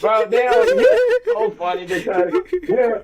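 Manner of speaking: incredulous outburst. Real, not acted. Laughing disbelief at friend's mockery.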